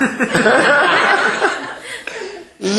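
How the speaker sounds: a long high burst of laughter. Real, not acted. Preacher laughing at the sleepy congregation. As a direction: laugh at the drowsy crowd.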